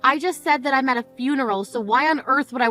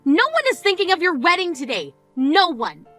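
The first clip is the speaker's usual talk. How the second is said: furious scolding; 4 semitones higher than usual. Acted. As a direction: finally lose your temper at her. Sister loses temper at funeral.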